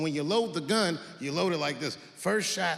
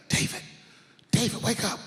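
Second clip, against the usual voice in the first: urgent wife whisper-call; 6 semitones higher than usual. Retold or imitated. Wife waking her husband at night, urgent. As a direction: call him awake with urgency.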